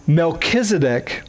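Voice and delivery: ordinary talk, nothing marked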